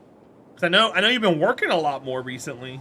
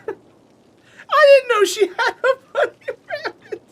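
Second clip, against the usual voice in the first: squealing through laughter, much higher and slow; laughing; 6 dB louder, slower than usual. Real, not acted. Telling chat about her mix-up, squealing with laughter. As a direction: laugh it out, helpless.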